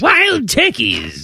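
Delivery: high, drawn-out mock exclamation; silly put-on voice. Silly callback to the letter.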